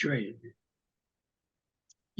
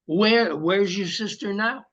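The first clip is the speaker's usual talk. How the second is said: pushy, higher interrogator; bad cop; 4 semitones higher than usual. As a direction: press him like a suspicious cop. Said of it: "Now, bad cop".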